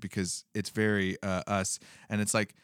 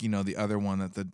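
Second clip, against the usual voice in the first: usual speaking voice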